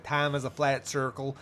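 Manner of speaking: hint of a bad American accent; a Scot's half-hearted American accent; terrible McConaughey accent. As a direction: lightly attempt an American accent, badly. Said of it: "It's a terrible accent".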